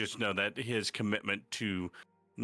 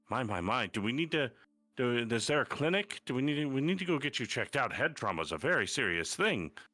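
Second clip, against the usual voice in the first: put-on older gentleman character voice; 4 semitones higher than usual. Narrating a scene where you got hurt, voicing an older gentleman. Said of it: "an older human gentleman is like".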